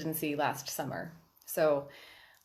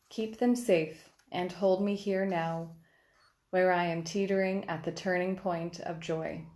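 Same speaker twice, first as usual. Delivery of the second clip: measured, even recital with pauses at line breaks; poetry reading. Acted. Poet reads her response to the opening prayer, measured recital. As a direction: read it as a prayerful poem, phrase by phrase. Reads own poem aloud.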